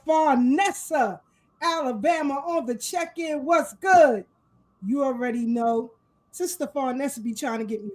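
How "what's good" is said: hyped greeting. Real, not acted. Shout-out to listener.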